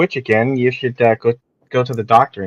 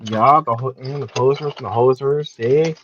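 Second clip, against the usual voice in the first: put-on terrible Canadian accent. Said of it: "My most terrible Canadian accent".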